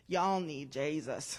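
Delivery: low, slow Southern grandmother voice; deep Southern accent. Retold or imitated. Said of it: "in her very deep Southern accent".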